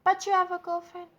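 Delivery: high, loud disbelieving cry; exasperated high protest. Retold or imitated. Girlfriend protesting to cheating boyfriend, high exasperated cry. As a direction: throw it at him, fed up and high.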